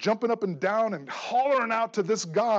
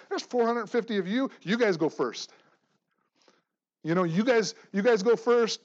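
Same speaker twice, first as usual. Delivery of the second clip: bold challenger, a touch louder; Elijah's challenge; 3 semitones higher, 5 dB louder than usual. Retold or imitated. Preacher voicing Elijah daring the prophets, bold. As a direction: dare the crowd to go first, firm and pushy. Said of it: "he's even saying".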